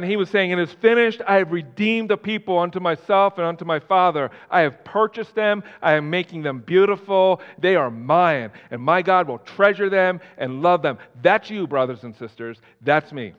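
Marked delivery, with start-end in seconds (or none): 0.5-11.0 loud, raised preaching voice; forceful retold declaration; retold triumphant cry. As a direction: proclaim it as a victory. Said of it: "he screamed".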